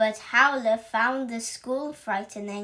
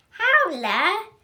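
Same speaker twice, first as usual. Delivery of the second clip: higher, loud bark of the name; 8 semitones higher, 7 dB louder than usual. Acted. Witch teacher barking Howler's name for his turn. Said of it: "barked the teacher".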